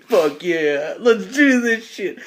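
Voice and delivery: drawn-out, rising hype cry; super amped. Acted. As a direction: psych yourself up for a fight, slowly. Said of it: "he's over there super amped".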